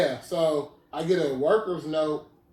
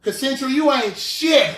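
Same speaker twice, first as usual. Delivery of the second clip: high, loud slow laughing diss; mock-call them out on air; laughing, drawn-out put-down; laughing callout; 9 semitones higher, 8 dB louder than usual. Real, not acted. Calling out clinic mockingly.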